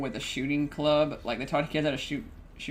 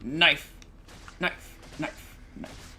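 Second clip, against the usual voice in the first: knife repeated, softer and softer; fading away; 5 dB quieter, much slower than usual. Pretend. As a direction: let each knife fade out. Repeated, fading each time.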